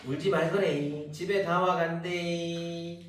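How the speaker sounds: slow, soothing Gyeongsang dialect line; lightly voiced Gyeongsang mother comforting. Teacher reading the migrant mother in Gyeongsang dialect, slow. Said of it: "한국말로".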